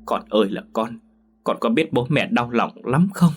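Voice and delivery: tearful reproach, voice climbing high on the pleas; reproachful and tender. Acted. Mother pleading with her son, tearful reproach. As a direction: scold him while your heart breaks. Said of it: "giọng nói như vừa trách cứ vừa cảm thương".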